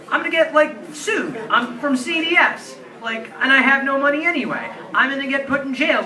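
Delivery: frantic worst-case spiral, pitched high; panicking. Retold or imitated.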